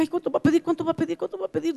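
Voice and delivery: soft, repeated worried muttering; acted nervous self-talk; anxious inner thought.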